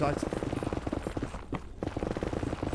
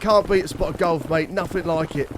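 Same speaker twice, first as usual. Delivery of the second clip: put-on London mate accent; 3 semitones higher than usual. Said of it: "He's like".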